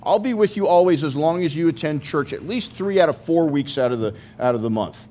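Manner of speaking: sarcastic voice of a fussy preacher; lightly sarcastic mock quote; mock conditional promise. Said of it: "Jesus doesn't say".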